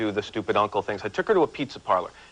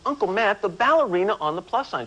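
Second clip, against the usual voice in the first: mock annoyed child; 7 semitones higher than usual. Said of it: "She gets all mad at me".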